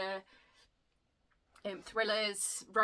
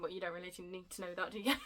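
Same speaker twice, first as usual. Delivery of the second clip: laughing; 2 semitones lower, 3 dB quieter, faster than usual. Real, not acted. Laughing at oversharing.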